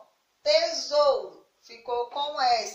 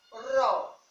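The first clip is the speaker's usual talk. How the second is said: syllable by syllable. Shown as a demonstration. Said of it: "se a gente fosse separar a palavra".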